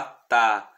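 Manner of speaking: "tá" stressed, slow; emphatic Latin stressed "tá"; stressed syllable ta. Shown as a demonstration. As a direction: lean on "tá". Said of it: "a sílaba tônica".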